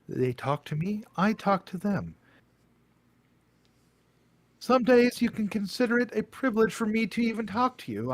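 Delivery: lofty bird caretaker, talking down; haughty owl voice. Acted. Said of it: "A J did a great job with a voice".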